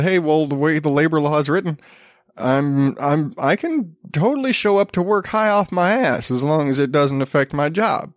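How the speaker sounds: mock Appalachian accent; lightly put-on Appalachian twang. Colombian worker arguing the labor law, mock Appalachian accent. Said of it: "Appalachian accent".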